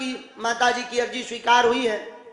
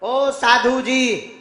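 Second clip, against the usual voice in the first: calling out; 3 semitones higher, 5 dB louder, much slower than usual. Real, not acted. Calling someone in the crowd.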